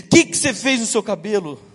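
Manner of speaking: pergunta alta de susto, encenada; espanto. Retold or imitated. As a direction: reconte o susto soltando a pergunta com força. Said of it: "com a minha resposta assustada". (reação assustada, imitada)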